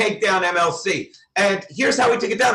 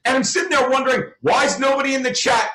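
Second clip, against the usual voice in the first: fast, then a higher furious shout; real frustrated yell; exasperated shout; 5 semitones higher, faster than usual. Real, not acted. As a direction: vent at the empty chat. Ranting at the empty chat.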